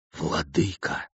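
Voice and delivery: very soft, low, hushed address; whispered plea. A narrator's reading. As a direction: murmur timidly to your ruler. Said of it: "прошептал старшой".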